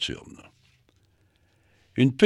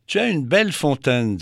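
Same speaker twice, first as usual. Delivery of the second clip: admiring; 5 semitones higher, 5 dB louder than usual. Acted.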